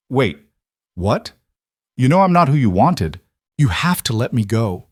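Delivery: captive's frantic plea to the departing boss; desperate protest. A narrator's reading. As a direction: call after him in panic.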